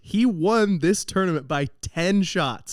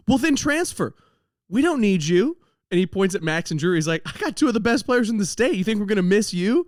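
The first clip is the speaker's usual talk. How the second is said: stern coach; 6 semitones higher than usual. Retold or imitated. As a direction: shut the kid down hard, like an irritated coach. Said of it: "my coach is not fucking around today".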